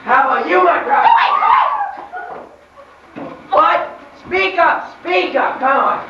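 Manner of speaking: wicked Bluebeard. Acted. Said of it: "I'm Bluebeard".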